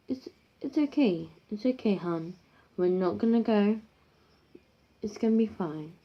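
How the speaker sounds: soft, gentle soothing to a daughter; a hint of a calm mother hushing; reassuring mum. Mum soothing scared teenage daughter, softly reassuring. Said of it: "her mum's like".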